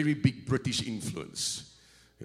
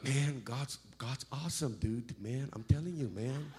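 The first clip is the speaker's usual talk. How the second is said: California surfer dude; 6 dB quieter than usual. Retold or imitated. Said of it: "the brother wants to tell you about".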